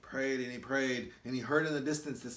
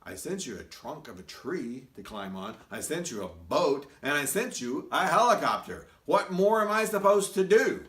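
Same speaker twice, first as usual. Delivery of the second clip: exasperated God; 7 dB louder than usual. Acted. God answers the man.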